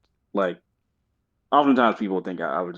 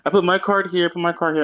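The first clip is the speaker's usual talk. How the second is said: lightly acted higher-pitched player voice; card player announcing a move; 8 semitones higher than usual. Friend telling how his friends played cards, imitating a player. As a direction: mimic a player calling each move. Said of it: "they're like".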